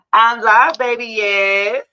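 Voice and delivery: loud call to someone off-mic. Real, not acted. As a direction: raise your voice to tell the caller. Calling out to caller while live.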